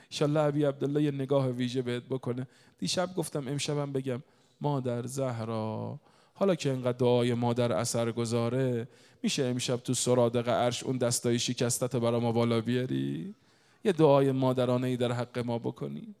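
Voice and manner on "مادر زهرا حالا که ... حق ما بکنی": earnest supplication from the pulpit; devotional plea. Real, not acted. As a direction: call on a holy mother, stretching the phrase ends. Pleads to Mother Zahra.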